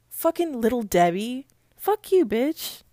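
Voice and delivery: loud angry curse; angry shout. Real, not acted. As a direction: yell the insult. Cursing at Little Debbie.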